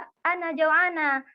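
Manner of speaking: "Ana Joanna" dengan dialek Indonesia, slow and drawn out; logat Indonesia. Shown as a demonstration. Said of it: "dialeknya dialek bahasa, bahasa Indonesia". (logat bahasa Indonesia, diucapkan pelan)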